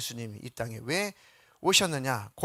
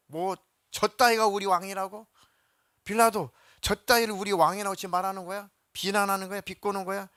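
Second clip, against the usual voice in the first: higher, indignant protest; angry crowd; 5 semitones higher, 3 dB louder than usual. Retold or imitated. Crowd angrily protesting Pilate's insult, indignant and higher. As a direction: bristle at being mocked. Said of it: "군중들이 더 막 화가 나죠".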